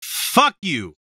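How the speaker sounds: Tony Soprano. Retold or imitated. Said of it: "That was a terrible Tony Soprano".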